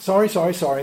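lightly imitated throwaway apology; glib apology. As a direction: rattle off a careless sorry. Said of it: "confess that way to God".

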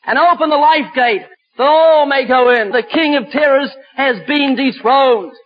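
measured, ringing declarations with weighty pauses; emphatic preaching. Acted. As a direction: declaim it from the pulpit.

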